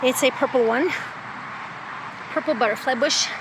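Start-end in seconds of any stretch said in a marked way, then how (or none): 2.3-3.3 winded, breathing hard; talking while short of breath. Real, not acted. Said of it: "I'm all out of breath".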